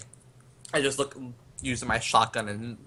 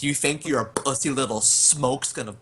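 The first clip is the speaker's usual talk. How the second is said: mildly raised, defiant call; half-hearted acted yell; 2 semitones higher than usual. Gunman taunting whoever sent the smoke, half-yelled. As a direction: yell into the distance without full force. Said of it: "I'm just sort of yelling".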